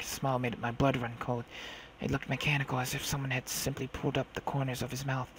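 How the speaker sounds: hushed, low-key storytelling; story narration. A narrator's reading. Girl recalls her captor's smile, hushed narration. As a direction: narrate it softly and ominously.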